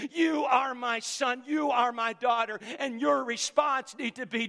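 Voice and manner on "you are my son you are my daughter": slow, ringing proclamation; booming fatherly declaration; God the Father proclaiming. Retold or imitated. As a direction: declare it over each listener. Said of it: "the Father is speaking today".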